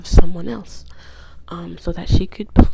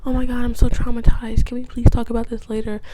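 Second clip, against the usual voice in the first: higher, louder play-acted distress; fake traumatized; 4 semitones higher, 4 dB louder than usual. Wife deflecting police questions, faking trauma. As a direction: play it off as a poor victim. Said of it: "Amy plays it off".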